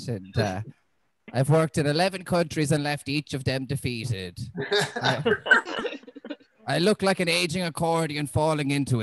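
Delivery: a hint of a burnt-out lifer sighing through it; defeated veteran teacher. Jaded colleague complaining to the substitute, lightly voiced weary drone. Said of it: "You know, a bit like that".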